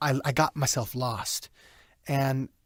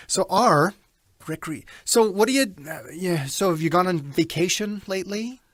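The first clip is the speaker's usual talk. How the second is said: telemarketer voice; 2 semitones higher than usual. Shown as a demonstration. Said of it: "Mechanical. Telemarketer-ish".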